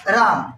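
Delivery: राम with the आ stretched long; drawn-out pluta vowel. Shown as a demonstration. Teacher stretching राम to show a pluta vowel. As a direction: hold the आ in राम for three beats. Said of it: "इसमें देखो एक, दो, तीन, चार".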